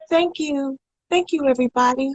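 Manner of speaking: lightly imitated singer thanking a crowd; a famous singer. Singer mimicking a star thanking everybody, light imitation. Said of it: "she was more of a higher".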